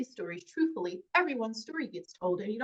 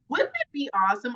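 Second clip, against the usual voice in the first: laughing out loud, much higher and louder; 4 semitones higher, 5 dB louder than usual. Real, not acted. Actress laughing at the host's joke, delighted laugh. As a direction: burst out laughing as you say it.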